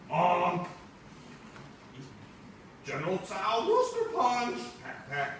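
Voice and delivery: high, loud cartoonish put-on cousin voice; exaggerated high cousin voice. Teacher reading the comic to the class, high cartoonish cousin voice. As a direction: play the visiting cousin big and squeaky.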